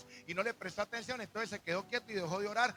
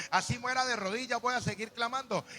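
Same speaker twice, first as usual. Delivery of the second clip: raised, insistent vow; determined declaration; 3 semitones higher, 7 dB louder than usual. Acted. Believer vowing to keep praying unanswered, loud and determined. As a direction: declare it loudly, refusing to give up.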